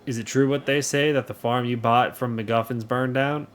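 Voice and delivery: folksy, lightly southern greeting; light southern accent. Acted. Townsperson greets the new farmer, light southern accent. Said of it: "that is my southern accent".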